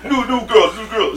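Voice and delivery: hammed-up strip club barker; mock club hawker. Teller imitating the strip club staff luring them in, loud and high.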